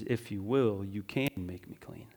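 quiet plea. Shown as a demonstration. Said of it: "really what he says in the passage is".

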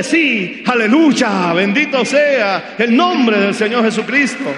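loud rousing praise; joyful proclamation. Acted. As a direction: proclaim it with rising fervour. Preacher models joyful reply.

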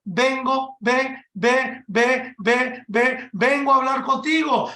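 stammering on the first sound of vengo; stuttering. Retold or imitated. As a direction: trip over "ve, ve" before "vengo" gets out. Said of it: "Él estaba tartamudeando".

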